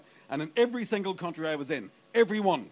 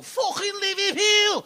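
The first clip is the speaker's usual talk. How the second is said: high, very slow, drawn-out sneer; mocking Liverpool sneer; 12 semitones higher, 5 dB louder, much slower than usual. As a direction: stretch it out in disgust. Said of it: "do they go".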